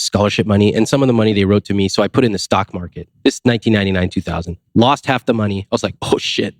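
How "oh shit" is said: breathy whispered dismay, retold; whispered oh shit. Recalling stock market loss, whispered curse. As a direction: whisper it like the bad news just hit. Retold reaction to losing money.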